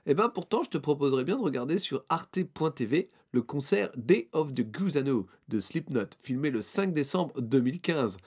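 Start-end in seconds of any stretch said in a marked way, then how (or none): 0.1-2.4 présentateur enjoué. Acted. Sketch joué pour lancer la news.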